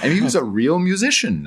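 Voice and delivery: amused, chuckling as you say it; real laugh breaking into the line. Real, not acted. Laughing at Heisenberg anecdote.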